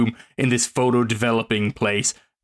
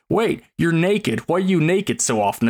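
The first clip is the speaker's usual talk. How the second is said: put-on whiny boyfriend quote; 6 semitones higher than usual. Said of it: "This dude is like".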